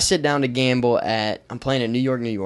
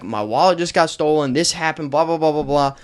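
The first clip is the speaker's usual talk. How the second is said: rising, louder plea to the desk; exasperated plea; 3 semitones higher, 5 dB louder than usual. Retold or imitated. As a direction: push harder with each line, fed up. Pleading with hotel staff.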